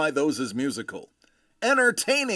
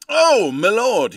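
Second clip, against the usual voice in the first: excited exclamation; 6 semitones higher, 9 dB louder, slower than usual. Real, not acted. Greets viewer first in chat.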